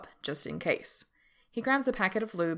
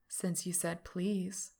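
slow tease; 4 dB quieter, slower than usual. Acted. Teasing lover, slow.

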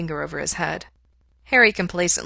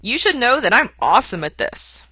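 earnest, higher and louder boast; 6 semitones higher, 6 dB louder than usual. A narrator's reading. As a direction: say it earnestly and proudly. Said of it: "said earnestly".

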